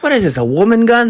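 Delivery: high, fast mocking squeak; mock-indignant squeaky question. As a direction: scoff in a hammed-up high voice. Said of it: "Sam's like".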